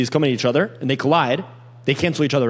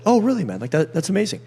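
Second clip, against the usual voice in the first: rising excited tone; 3 semitones higher than usual. Shown as a demonstration. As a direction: pitch goes up, bright and lively reaction. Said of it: "You need to go upwards".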